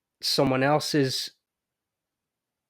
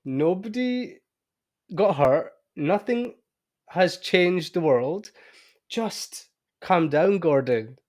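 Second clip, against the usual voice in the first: talking herself down, calming; 3 semitones higher, slower than usual. Retold or imitated. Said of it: "And I'm like".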